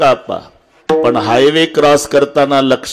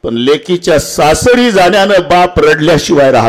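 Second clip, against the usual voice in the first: raised, emphatic preacher's voice; impassioned preaching; 7 semitones higher than usual. Real, not acted. Preacher telling the congregation how fathers weep for daughters, impassioned. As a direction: drive the key sentence home.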